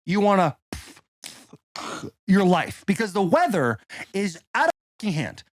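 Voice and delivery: emphatic, swinging sales-pitch delivery; ad read. Acted. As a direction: sell it with exaggerated, punchy emphasis. Recorded host-style ad read with story.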